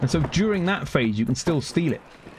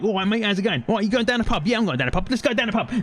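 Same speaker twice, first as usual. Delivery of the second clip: higher-pitched, chatty London accent; hammed-up London pub banter; 7 semitones higher, faster than usual. Shown as a demonstration. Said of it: "you get up to London".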